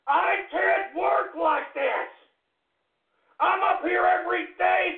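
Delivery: yelled, slow furious complaint; angry shout. Acted. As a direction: bellow it like a fed-up radio host. Ranting host yelling at the tech.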